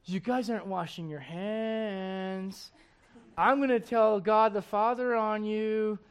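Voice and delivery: slow, mocking tattletale voice; whiny kid tattling. Preacher mocks the Pharisees as tattling kids. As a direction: play a petty child telling on others.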